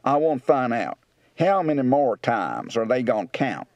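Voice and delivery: rural Kentucky, "want" as "wont", "gonna" as "gone"; rural Kentucky accent. Shown as a demonstration. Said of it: "Kentucky, rural".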